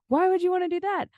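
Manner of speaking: put-on high, slow, whiny kid; little kid voice. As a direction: play a bratty little kid. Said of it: "it was just so, like, little kid".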